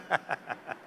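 soft breathy chuckling; quiet laugh after a joke; laughter. Real, not acted. Audience amused by his self-mockery, soft laughter.

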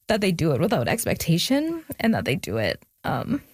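real tears close, voice catching; fighting to hold it together; choked up. Real, not acted. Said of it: "I need a second".

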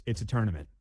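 "tournament" as "TURN-ament"; first syllable of "tournament" like "turn"; boss's correction. Retold or imitated. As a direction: insist on "tournament" with an UR vowel. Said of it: "He goes".

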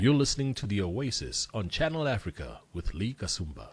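poised radio ident with sweeping intonation; voiceover voice. Shown as a demonstration. Guest's retake of the host's show ident, voiceover voice. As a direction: deliver it as a polished station announcer. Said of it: "Do it in your voiceover voice".

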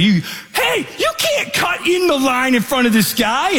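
high, shouted complaint from two ladies; indignant ladies. Retold or imitated. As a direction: scold the line cutter in a high voice. Ladies protesting line cutting.

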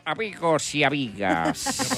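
announcer drawing out the greeting. Acted. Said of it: "el animador dio".

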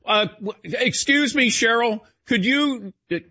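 high, eager mock student raising a question; eager pupil. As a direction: play the overkeen student asking the attendant to repeat. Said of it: "if I had a pen and pad".

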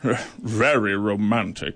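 deadpan from the bench; dry judge. Acted.

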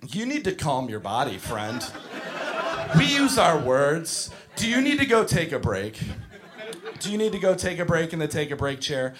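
measured, patient preschool-teacher talk; restrained teacher calm. Retold or imitated. Teacher to screaming preschooler, forced calm. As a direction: keep your temper with an upset child. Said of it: "I'm never allowed to lose my temper".

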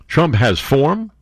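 slowly, stressing Trump; slow deliberate reread with Trump stressed; slow reading. Shown as a demonstration. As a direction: read each word out slowly. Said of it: "That's what it says here".

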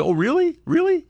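squeaky high, gushing mock of J D. Mocking J D as he hears the Iranians' promise, in a squeaky high voice. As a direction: play J D as a gullible squeaky yes-man. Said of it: "That's how he talks w-, in private".

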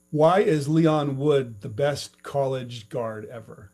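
slow, mock-serious sarcasm; sarcastic. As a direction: ask it with dry satire. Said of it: "speaking with satire in my voice, sarcasm".

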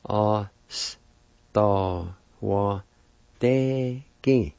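A, s, ta, wa, te, ki each said apart; syllable by syllable. Shown as a demonstration. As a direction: break the word into syllables. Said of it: "Second part".

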